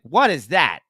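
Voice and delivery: a hint of a stern father; disapproving father. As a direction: question it like a baffled dad. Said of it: "my father was like".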